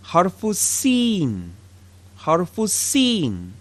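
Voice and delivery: "harfu sin" said slowly and clearly; letter name demo. Shown as a demonstration. Teacher names the letter sin for beginners, slowly. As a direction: spell out "sin" for learners. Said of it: "Next we have".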